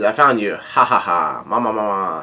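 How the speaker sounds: lightly voiced villain gloating with a low mock laugh; Big Mom. Villain finds the runaways, lightly voiced low gloating. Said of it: "Big Mom shows up and she says".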